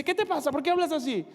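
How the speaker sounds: agudo y ofendido; suéltalo como familia molesta; reproche indignado. Acted. Todos reprochan al valiente. (todos regañan al que habla, indignados)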